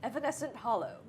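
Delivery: tree voice for reading the card; talking tree. Pretend. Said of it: "This is my tree voice".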